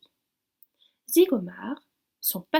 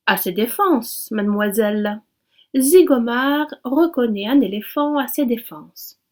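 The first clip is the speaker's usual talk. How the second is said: brooking no reply; 9 dB louder than usual. A narrator's reading. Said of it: "d'un ton sans réplique".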